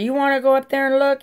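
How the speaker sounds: high, fast challenging shout; shouting a challenge at the cop; yelling. Retold or imitated. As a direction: fire the dare at the cop, loud. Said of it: "I'm screaming at him".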